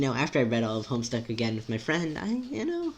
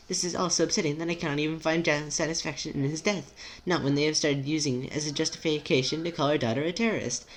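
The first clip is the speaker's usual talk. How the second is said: anxious, formal character; 4 semitones higher than usual. Acted.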